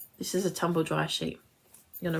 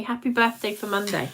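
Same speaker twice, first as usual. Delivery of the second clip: usual speaking voice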